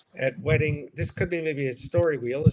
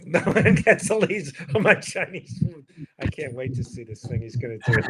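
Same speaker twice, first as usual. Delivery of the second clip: wedding guests. Retold or imitated. Voicing laughing wedding guests.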